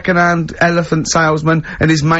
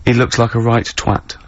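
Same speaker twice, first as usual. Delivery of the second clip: lower, lightly voiced dad's aside; dad's remark; 6 semitones lower than usual. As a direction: drop the voice for the dad muttering off camera. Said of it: "His dad says".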